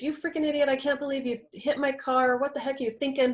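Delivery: lightly acted angry tirade; mild mock rage. Partner raging about a hit car, mock angry. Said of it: "comes in in a rage".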